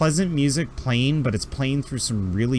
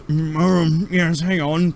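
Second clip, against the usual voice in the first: much higher, fussy put-upon doctor voice; grumpy alien doctor; 5 semitones higher, 3 dB louder, slower than usual. Acted. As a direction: huff like an overworked old doctor. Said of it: "the doctor almost looks at you and goes".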